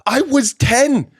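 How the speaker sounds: high, disbelieving self-talk; asking yourself in horror; incredulous inner voice. Retold or imitated. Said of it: "'cause I'm just like".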